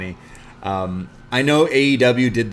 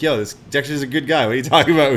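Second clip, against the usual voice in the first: loud, louder on the second line; ref breaking character; 4 semitones higher, 5 dB louder, faster than usual. Retold or imitated. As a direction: call out in protest. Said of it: "breaks character".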